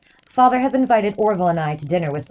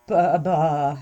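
starstruck, can't form words; speechless stammer; 4 semitones lower than usual. Acted. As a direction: stammer in awe. Had been rendered speechless.

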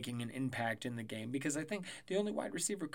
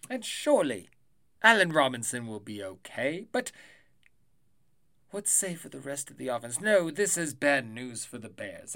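a hint of olde British accent, lightly put on; mock olde British accent; medieval British voice; 4 dB louder than usual. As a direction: play a mock medieval English herald. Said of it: "a medieval time British voice".

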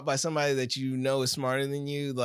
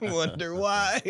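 laughing tease; much slower than usual. Retold or imitated. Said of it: "repeats the tease, slowed".

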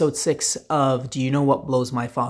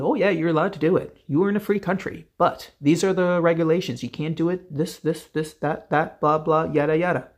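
mock-cheerful official voice, higher and fast; mocking the authorities; 3 semitones higher than usual. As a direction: parody the smug regulators rattling off rules. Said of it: "they tell you".

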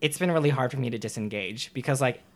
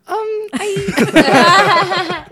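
laughing; 13 dB louder than usual. Retold or imitated. Stunned reaction, laughing.

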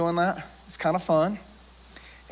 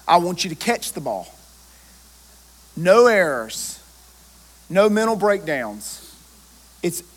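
mock harsh coach. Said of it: "I didn't get the guys in a huddle and say".

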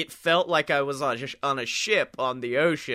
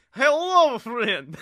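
high airy ghost voice; ghostly spirit; 11 semitones higher, 3 dB louder, slower than usual. Retold or imitated. The ghostly spirit of Burbane greets the heroes. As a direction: float it like a spirit. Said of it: "he was just like".

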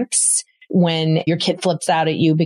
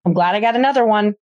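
breezy shrug-off; 4 semitones higher than usual. Shown as a demonstration. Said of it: "You drop something on the floor, you go".

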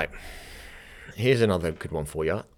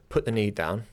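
mock American teacher cue; comic, not very good American accent; bad American accent. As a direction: lightly attempt a generic American accent. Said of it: "Sorry for that American accent".

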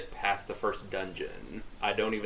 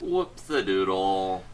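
silly voice; 3 semitones lower, slower than usual. Acted. Silly interjection after mistake.

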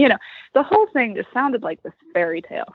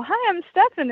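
cheerful greeting; 9 semitones higher than usual. Retold or imitated. Repeating Stefan's greeting.

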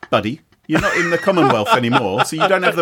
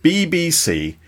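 slow, drawn-out Received Pronunciation; Queen's English; slower than usual. Shown as a demonstration. British host boasting of his accent, mock-grand Queen's English. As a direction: show off top-tier BBC Queen's English. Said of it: "what we call the Queen's English".

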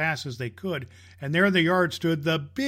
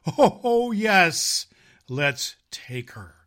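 eager yes; 5 dB louder, much slower than usual. Acted. Reindeer bells voiced eagerly.

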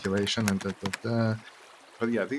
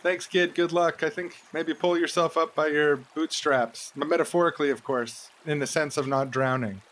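calling out; 4 semitones higher than usual. Pretend. Calling to drowning kid.

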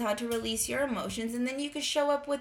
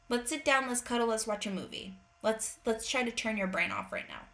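soothing parent; 5 dB quieter than usual. Retold or imitated. Parent inviting an anxious daughter to cuddle, soft and soothing. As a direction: gently settle a child down.

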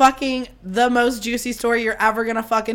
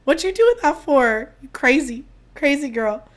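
sassy self-scolding; 3 semitones higher than usual. Retold or imitated. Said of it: "And I was like".

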